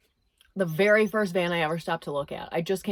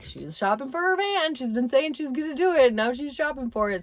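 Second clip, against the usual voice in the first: imitating ex-boyfriend; 6 semitones higher, 3 dB louder than usual. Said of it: "Snapchatting it to his guy friends to say".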